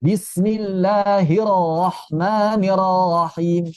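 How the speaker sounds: 'Bismillahirrahmanirrahim' slow, each double r released as 'ro'; wrong bouncing ro. Shown as a demonstration. Teacher shows common error, bouncing ro. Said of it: "Tidak tepat".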